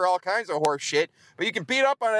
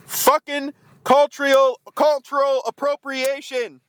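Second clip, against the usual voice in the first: raised pitch, slow and louder, stretching the words; indignant outburst; 4 semitones higher, 5 dB louder, slower than usual. Real, not acted. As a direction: spit it out in outrage. Indignant rant about team mascot.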